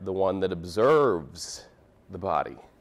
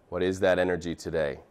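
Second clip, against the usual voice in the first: measured meditation guidance with long pauses; guided meditation. Acted. Teacher leading a class into breath observation, guided meditation. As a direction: guide them gently into observing.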